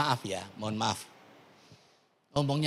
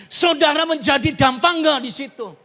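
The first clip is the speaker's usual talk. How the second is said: louder, higher preacher's questioning; raised-voice sermon question; preaching challenge; 8 semitones higher, 7 dB louder than usual. Acted. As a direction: press the congregation for an answer. Preacher presses the congregation with questions.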